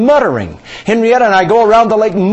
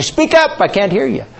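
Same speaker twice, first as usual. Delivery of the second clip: raised pitch, mild complaint to a mutterer; calling to speak up; 6 semitones higher than usual. Retold or imitated. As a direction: ask a mumbler to speak up, voice pitched higher. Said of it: "She's muttering so low. I'll say".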